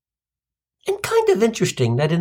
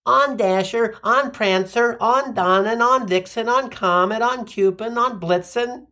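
drag queen chorus; 5 semitones higher than usual. Retold or imitated. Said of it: "like a drag queen chorus line".

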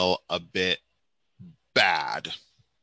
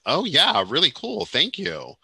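imitating a breezy, higher-pitched thanks; upbeat casual quote; 6 semitones higher than usual. Retelling Koki's reply to news of the post, breezy and upbeat. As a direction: lightly act out a pleased, casual reply.

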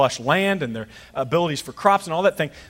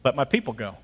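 Moses confronting Pharaoh; 3 semitones higher, 6 dB louder than usual. Retold or imitated.

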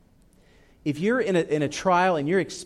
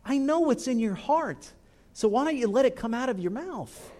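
knowing God voice; 9 semitones higher than usual. Pretend. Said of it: "God's gonna look at you and say".

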